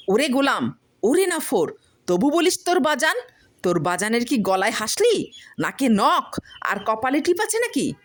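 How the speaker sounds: high, loud furious yelling; enraged wife screaming at husband. Acted. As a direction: scream abuse at him. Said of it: "আরও জোরে চিৎকার করিয়া উঠিল".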